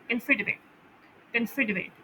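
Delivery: कंसीडरेट with सी stressed and the first syllable weak. Shown as a demonstration. Teacher models कंसीडरेट with stress on सी. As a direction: put the weight on सी in कंसीडरेट. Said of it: "इसमें सी पर जोर होता है".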